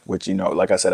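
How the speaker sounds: normal talking voice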